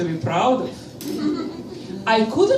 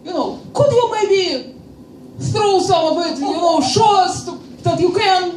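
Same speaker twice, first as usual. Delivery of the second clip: intense guy; 5 semitones higher, faster than usual. Retold or imitated. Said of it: "very intense guy".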